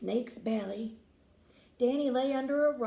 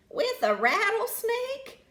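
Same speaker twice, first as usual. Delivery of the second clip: much higher shocked question; gasped; 11 semitones higher, 4 dB louder than usual. A narrator's reading. Grandma shocked at touring with a snake, high gasp. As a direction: gasp it out in disbelief. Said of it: "gasped the grandma".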